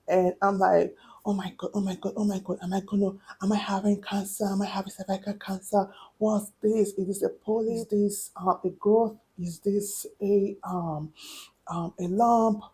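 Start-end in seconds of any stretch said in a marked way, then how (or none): 1.2-12.6 hushed panicked self-talk; fretting softly to herself, retold; panicking. Woman retelling her own panic over a lump, hushed panicking. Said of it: "So I started panicking".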